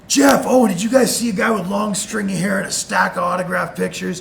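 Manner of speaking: loud, high urgent call; calling out loudly. Retold or imitated. Wrestler calling to friends at the bar, loud. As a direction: shout across the room to them.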